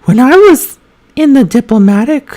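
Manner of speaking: high, put-on reading voice; high feminine voice. Shown as a demonstration. Reading aloud as voice practice, high feminine voice. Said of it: "You should read in that voice".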